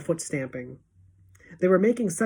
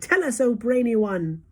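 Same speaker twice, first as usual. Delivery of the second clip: eager fawning cry; 5 semitones higher than usual. Acted. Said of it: "they cried".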